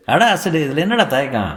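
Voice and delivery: good-humoured elder scolding; jovial husband chiding. Acted. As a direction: tease the shy young man as a silly boy. Husband chides guest jovially.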